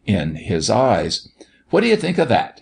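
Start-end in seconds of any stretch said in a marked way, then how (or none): 1.7-2.6 high-pitched, insistent challenge; mock fierce. A narrator's reading. Doctor repeats his challenge to the children, fierce. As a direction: hurl the question up high in feigned fury. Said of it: "he repeated fiercely".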